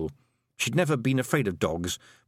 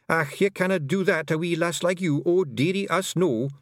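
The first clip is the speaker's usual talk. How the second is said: higher, clucking Scots worry; imagined fussing Feegle; 7 semitones higher than usual. Retold or imitated. The Feegles she imagined fretting over her, clucking Scots. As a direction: fuss like a Scots granny pixie.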